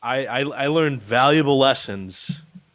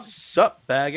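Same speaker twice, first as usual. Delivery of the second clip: mimicking the comic; 3 semitones higher, slower than usual. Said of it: "forgot the first half of the joke".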